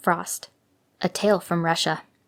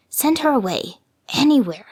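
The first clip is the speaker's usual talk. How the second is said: rising shrill demand; 5 semitones higher than usual. A narrator's reading. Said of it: "kept saying to her father".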